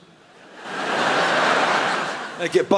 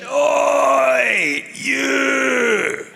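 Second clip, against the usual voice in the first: shouting; 7 semitones higher than usual. Retold or imitated. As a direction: yell out across the park.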